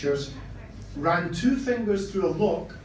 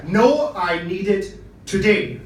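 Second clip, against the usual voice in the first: firm refusal; 2 semitones higher, 6 dB louder, slower than usual. Acted. Customer refuses the delay.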